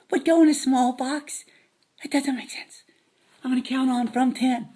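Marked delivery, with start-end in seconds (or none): 2.0-2.8 whisper. Acted. Whispered aside.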